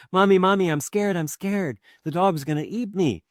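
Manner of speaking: high-pitched cries to a parent; scared child. Acted. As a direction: play a frightened toddler running for comfort. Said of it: "goes crawling away and the dog barks".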